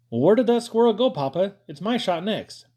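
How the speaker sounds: put-on high, loud eager kid voice; boy pushing for his shot; eager call. A narrator's reading. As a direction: call out, impatient for his turn. Eager boy calling to Papa.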